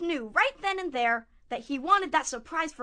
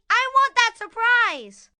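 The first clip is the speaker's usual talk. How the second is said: higher, slow, emphatic demand; demanding villain; 5 semitones higher, 4 dB louder, slower than usual. Acted. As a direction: insist like a storybook wolf. Wolf defies Granny.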